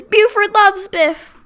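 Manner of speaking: put-on high, slow baby-talk voice. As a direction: coo it like talking to a toddler. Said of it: "Like a little baby talk".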